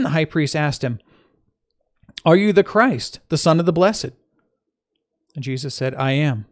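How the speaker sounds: clear, emphatic Bible reading; scripture reading. Acted. Teacher reading the Gospel to listeners, measured scripture reading. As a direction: read the passage aloud with firm opening stresses.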